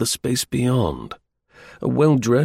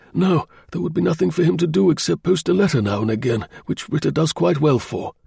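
higher-pitched engineer voice; engineer client; 7 semitones higher than usual. Acted. Engineer explaining his office to the investigator, higher voice. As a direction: answer as the earnest client.

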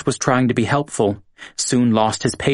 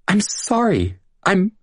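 high, understated sobbing apology; a touch of a sob, pitched high; mild sobbing; 11 semitones higher than usual. A narrator's reading. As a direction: Julia apologising to Ross, lightly sobbing. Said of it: "Julia said, sobbing".

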